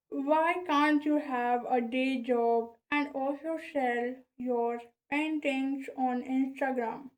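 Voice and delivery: reading aloud around a pen held in the mouth; words shaped around a pen between the teeth. Shown as a demonstration. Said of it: "just I put the pen in my mouth".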